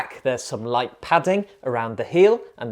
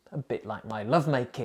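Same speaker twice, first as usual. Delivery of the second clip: softer, quicker muttered aside; quiet aside; 2 semitones lower, 7 dB quieter, faster than usual. Acted. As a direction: drop it in as a quick quiet joke.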